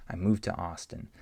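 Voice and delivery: "moved to" sounding like "move to"; d blended away; d blends into t. Shown as a demonstration. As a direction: let the d vanish into the t of "to". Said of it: "virtually the same as saying move".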